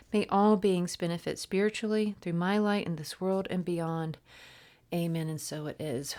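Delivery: earnest, steady prayer read. Acted. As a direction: pray it as a sincere invocation. Reads a prayer aloud.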